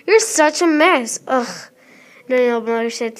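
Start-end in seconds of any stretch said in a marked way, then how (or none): 0.1-1.5 slow, exasperated and louder; stressed and slow. Acted. Mother fed up with her daughter, slow and stressed. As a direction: drag it out, fed up. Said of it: "stressed and slowly".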